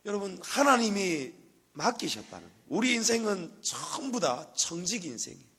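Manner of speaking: loud, high fervent sermon voice; full-force preaching. Real, not acted. Pastor proclaiming God owns everything, loud fervent preaching. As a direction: proclaim it to the whole church.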